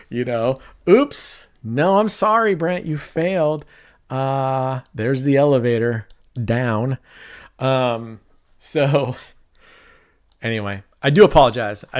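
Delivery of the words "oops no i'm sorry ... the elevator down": a sing-song tester handing down a fail; playful angel voice. Retold or imitated. Angel jokingly failing Brent in a sing-song voice. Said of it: "I like to say".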